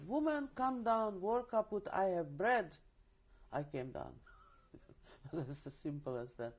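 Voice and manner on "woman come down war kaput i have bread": calling out. Retold or imitated. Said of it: "but then he said".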